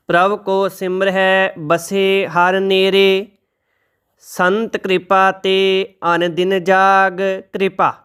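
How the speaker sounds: slow, measured reading of sacred verse; scripture recitation. Shown as a demonstration. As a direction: recite each line slowly and reverently.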